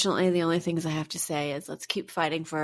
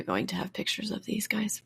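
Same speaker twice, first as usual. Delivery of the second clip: whispering; 3 semitones higher, 5 dB quieter than usual. Real, not acted. Still emotional after the case.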